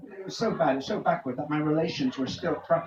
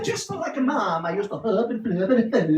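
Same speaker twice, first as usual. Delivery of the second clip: catchphrase garbled into gibberish Dutch; hammed-up Dutch advert slogan; mock Dutch accent; 3 semitones higher than usual. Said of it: "It's made in Holland".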